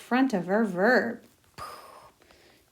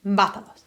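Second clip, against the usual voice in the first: bátalos with the stress on BÁ; 3 dB louder than usual. Shown as a demonstration. Teacher modelling accent to students, BÁ stressed. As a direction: lean on the first syllable BÁ in bátalos. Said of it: "we gotta put our accent on".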